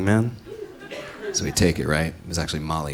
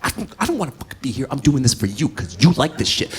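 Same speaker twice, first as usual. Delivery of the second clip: frustrated complaint; 6 semitones higher than usual. Retold or imitated. His half of the quarrel.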